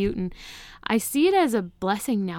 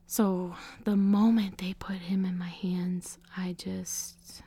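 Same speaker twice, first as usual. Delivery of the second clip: hushed; slower than usual. Real, not acted. Tender moment with baby.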